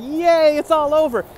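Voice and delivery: high, loud "yay"; mock cheer. The doomed fish cheers its end, high and loud. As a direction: cheer it like a kid at a party.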